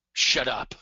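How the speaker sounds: mock disbelief, punched; hammed-up incredulous reaction; acted excitement. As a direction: play an amazed listener mirroring excitement. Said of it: "what someone who's excited may be saying".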